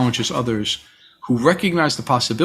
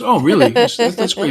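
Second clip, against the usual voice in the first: mock surprise; 8 semitones higher, 4 dB louder than usual.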